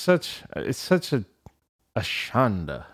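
put-on a light New York Jewish accent on it. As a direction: lean into a Yiddish New York lilt. Yiddish word, laughs after.

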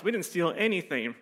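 lightly voiced mom protesting; a mild mock denial from mom; mom's denial. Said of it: "my mom's like".

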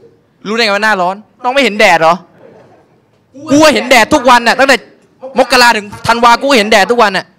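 mock her while laughing; laughing retort.

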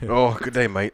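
tentative Australian accent; amateur stab at an Australian accent; Paul Hogan. Shown as a demonstration. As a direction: try a rough Aussie greeting. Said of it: "Give me a Paul Hogan accent".

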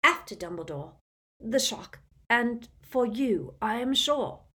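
put-on mild tearful old wizard. A narrator's reading. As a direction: hold back tears. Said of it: "eyes filled with sudden tears".

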